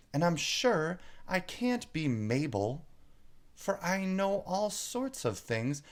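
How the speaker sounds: put-on high, rising puzzled girl; Alice bewildered. A narrator's reading. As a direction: wonder anxiously who you are now. Alice reasons aloud.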